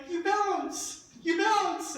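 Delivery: retold trampoline cheer; encouraging call. Showing girls how to bounce.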